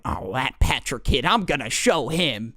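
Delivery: muttered grudge, lightly acted; mock mad kid. Bartholomew fumes to himself about Patrick, mock mad. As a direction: grumble it like a sulking, jealous kid. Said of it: "he was getting really mad".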